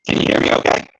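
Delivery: muffled broken call line; as if speaking underwater; underwater sound. Real, not acted. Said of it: "it sound like you're underwater".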